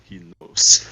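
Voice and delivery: low, grave and ominous; dramatic low voice. Retold or imitated. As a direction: say it like a movie reveal. Dramatic close-up line.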